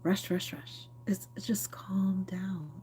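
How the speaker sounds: slow whispered imitation of dad; softly voicing her late dad; imitating dad. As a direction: hush it slowly like dad did. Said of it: "my dad had a very specific way of talking".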